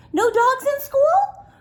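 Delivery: high, rising mock astonishment; playful pretend disbelief; mock surprise. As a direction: act shocked for the kids. Teacher mock-surprised to kids.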